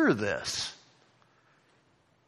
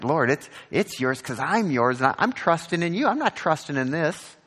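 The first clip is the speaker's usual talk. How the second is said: louder, faster pleading to the Lord; fervent prayer; 5 semitones higher, 4 dB louder than usual. Retold or imitated. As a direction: pour it out as an urgent prayer. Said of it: "This is like".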